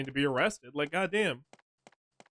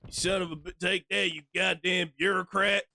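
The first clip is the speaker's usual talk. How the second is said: pillager voice; 5 semitones higher, 4 dB louder than usual. Acted. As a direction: roar it like a raiding pillager. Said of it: "trying to sound like a fucking pillager".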